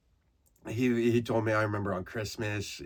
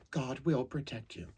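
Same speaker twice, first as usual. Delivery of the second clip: higher, soft, sweet nurse voice; a gentle older nurse, lightly voiced; imitating the nurse; 4 semitones higher, 6 dB quieter than usual. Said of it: "And she's like".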